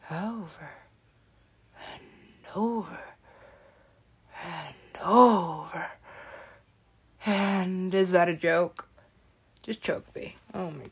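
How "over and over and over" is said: mock weeping. Real, not acted. Despair at endless Jimmy Fallon.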